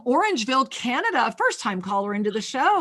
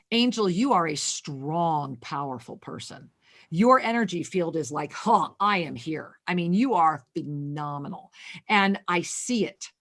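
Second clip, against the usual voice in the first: a touch of soothing reader voice; tender affirmation; 6 semitones lower than usual. Real, not acted. Reader speaks affirmations to caller.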